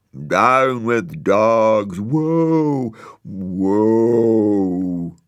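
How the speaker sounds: very slow, loud wailing lament; hammed-up tree wail; weeping trees. A narrator's reading. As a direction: sob out the protest like weeping willows. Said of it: "the trees wept buckets".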